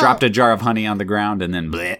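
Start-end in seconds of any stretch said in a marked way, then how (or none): 1.7-2.0 comic "bleh" of collapsing; quick mock dying noise; splat noise. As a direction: blurt a floppy little splat. Imitates someone falling in honey.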